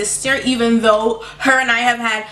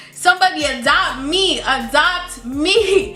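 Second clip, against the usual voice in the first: half-laughing mock plea, drawn out; 5 semitones higher, slower than usual. Real, not acted. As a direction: beg to be adopted through a laugh. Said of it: "joking plea".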